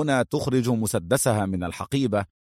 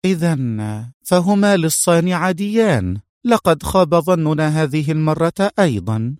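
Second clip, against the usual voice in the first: higher-pitched female character voice; disappointed young woman; 5 semitones higher than usual. Acted. Mona telling Adham their guess was wrong, disappointed. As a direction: lift the pitch, let disappointment show.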